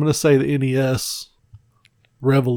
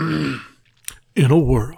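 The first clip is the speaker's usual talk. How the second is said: breathy trailer-voice whisper; movie trailer whisper; much slower than usual. Pretend. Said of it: "narrator voice".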